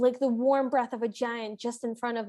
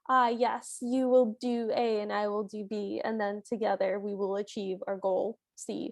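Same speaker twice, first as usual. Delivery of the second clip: transactional; 5 semitones lower than usual. Retold or imitated. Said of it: "in a very transactional sort of way".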